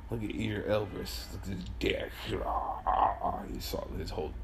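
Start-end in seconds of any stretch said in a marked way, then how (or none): 1.3-4.3 whispered aside; hushed whisper. Real, not acted.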